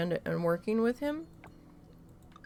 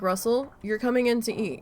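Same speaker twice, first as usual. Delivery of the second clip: firm summons; 3 semitones higher, 4 dB louder than usual. Retold or imitated. Calling husband in firmly.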